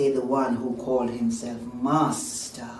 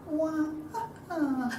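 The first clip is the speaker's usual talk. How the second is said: high mock baby wail; thin, high stylized crying; baby's cry; 12 semitones higher, 5 dB quieter than usual. A narrator's reading. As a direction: imitate an infant's wahs. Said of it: "grew louder".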